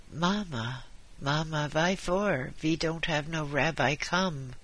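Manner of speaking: put-on old husband with a Yiddish lilt; a touch of pleading Yiddish-inflected patient; lightly voiced old Jewish husband. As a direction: ask mamma like an old Yiddish-speaking husband.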